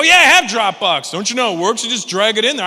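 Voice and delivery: loud, high exasperated rant; mock yell. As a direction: yell it like a fed-up know-it-all. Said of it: "I go".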